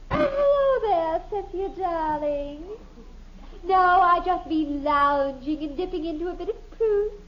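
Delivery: a hint of a drawled grand-lady air; affected society voice. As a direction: put on a refined manner for the caller. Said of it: "Isn't that awful?".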